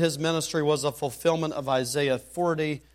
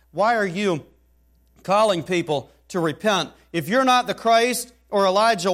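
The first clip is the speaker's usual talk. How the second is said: incredulous questioning; 4 semitones higher, 5 dB louder than usual. Retold or imitated. Questioners challenging John the Baptist.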